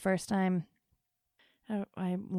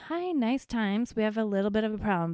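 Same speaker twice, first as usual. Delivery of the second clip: mock-professional doctor pleasantries; polite doctor; 3 semitones higher than usual. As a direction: imitate a tactful doctor easing in. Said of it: "You expect them to be like".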